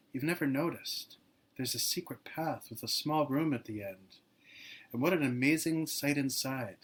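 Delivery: poem reading. Acted. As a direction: give each image room, unhurried and reverent. Reads devotional poem aloud.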